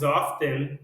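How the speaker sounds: "often" with the t sounded; t pronounced. Shown as a demonstration. Teacher showing students both options, t pronounced in "often". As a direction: say "often" as OF-ten, t clearly released. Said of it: "você pode falar das duas formas".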